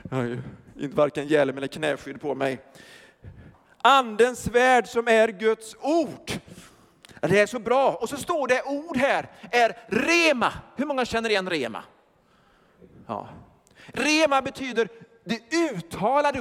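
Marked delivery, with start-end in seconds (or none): none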